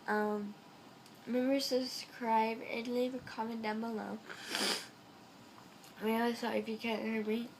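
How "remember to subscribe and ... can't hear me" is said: blocked nose, stuffed up; stuffy nose. Real, not acted. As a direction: talk through a head cold. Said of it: "I'm really stuffed up".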